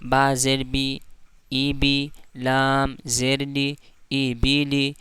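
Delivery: each letter read out slowly; slow recitation demo. Shown as a demonstration. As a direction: recite slowly so the class can follow. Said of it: "जैसे".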